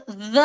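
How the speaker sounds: teacher showing ज़ as a thin buzzed z pushed out with air; forceful z with air. Shown as a demonstration. Teacher shows students the letter's airflow, forceful ज़. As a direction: say ज़ with force and breath behind the z. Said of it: "ज़ में जोर से आ रहा है".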